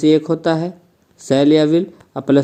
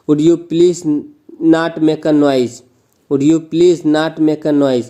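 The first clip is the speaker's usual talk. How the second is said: polite request; much slower than usual. Shown as a demonstration. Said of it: "नम्र निवेदन प्रकट होता है".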